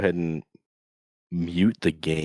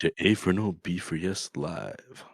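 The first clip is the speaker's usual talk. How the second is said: radio DJ voice; 2 semitones higher, 4 dB louder than usual. Pretend. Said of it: "Which kind of radio voice are you doing?".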